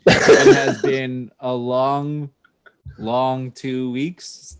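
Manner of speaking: slow, stretched weary words; drawn out. Real, not acted. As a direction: drag each word out.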